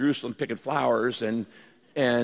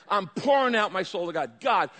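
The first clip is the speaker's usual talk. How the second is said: impassioned, raised plea to God; gut-wrenching prayer; 4 semitones higher than usual. Shown as a demonstration. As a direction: pour it out, pleading with growing intensity. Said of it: "This is gut-wrenching praying".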